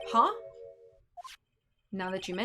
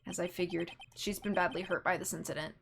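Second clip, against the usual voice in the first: lightly voiced reserved prosecutor, measured; slightly lowered, restrained formal delivery; composed, formal gentleman; 4 semitones lower, 5 dB quieter than usual. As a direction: observe it with quiet composure. Reads composed prosecutor's lines.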